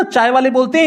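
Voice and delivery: normal talking voice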